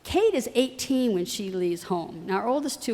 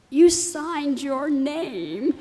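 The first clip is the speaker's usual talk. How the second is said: very slow, higher words pushed out through tears; a tearful mother's slow halting answer; choked-up explanation; 4 semitones higher, much slower than usual. Retold or imitated. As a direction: barely get it out through tears.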